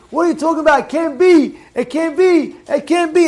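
high, insistent mock protest; retold screaming. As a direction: imitate an outraged objector repeating himself. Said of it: "screaming in the thing".

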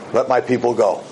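deep, grand movie-prophet voice; Charlton Heston. Retold or imitated. Moses demanding Pharaoh free his people, Heston style. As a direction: boom it out like an epic film Moses. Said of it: "Sound like Charlton Heston".

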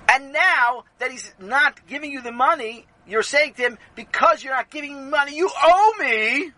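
high, insistent, stretching to a loud finish; building accusation. Acted. Rebbe builds his accusation.

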